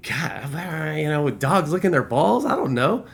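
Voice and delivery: baffled reply. Retold or imitated. Acted baffled reply to odd question.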